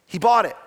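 P=A; stress on bought. Shown as a demonstration. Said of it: "He didn't inherit it".

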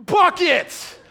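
God pouring out grace, laughing shout; gleeful bucket. Pretend. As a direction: throw the word out like a whole bucket. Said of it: "He's like".

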